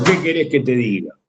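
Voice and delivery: low, falling answer meaning things are bad; resigned exclamation. Shown as a demonstration. Teacher answering a how-are-you with signs of exclamation, resigned. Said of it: "con ese tono significa, "Me va mal".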